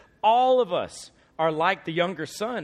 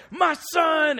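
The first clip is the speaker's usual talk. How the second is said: joyful cry; 12 semitones higher, 6 dB louder than usual. Retold or imitated. Dad imagined overjoyed.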